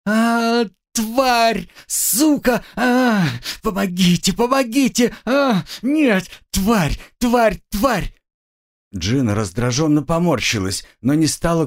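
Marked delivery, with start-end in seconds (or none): 0.0-8.1 much higher pained screaming and cursing; screaming at the top of her voice. Acted. Pierced captive screams curses and for help, high full-voiced yelling. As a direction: scream for help in sudden pain. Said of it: "заорала во весь голос".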